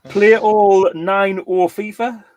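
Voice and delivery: slow, title words in reverse order; backwards speech. Shown as a demonstration. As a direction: read the title back to front slowly. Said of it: "we'll just go back normal here".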